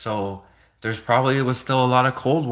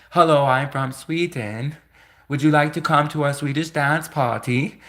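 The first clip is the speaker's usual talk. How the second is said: cheery Swede; 3 semitones higher than usual. Retold or imitated. Voicing a friendly Swede.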